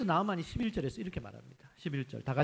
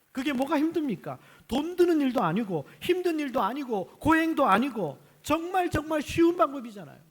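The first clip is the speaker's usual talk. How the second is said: emphatic appeal; 9 semitones higher, 5 dB louder than usual. Real, not acted.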